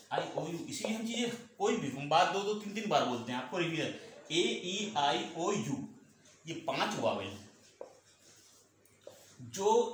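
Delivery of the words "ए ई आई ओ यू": slow vowel recitation. Shown as a demonstration. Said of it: "teacher recites the five vowels".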